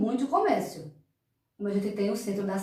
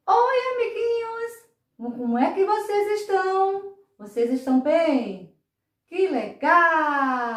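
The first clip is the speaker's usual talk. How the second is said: puppet voice; 3 semitones higher than usual. Acted. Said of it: "vou chamar o nosso amiguinho".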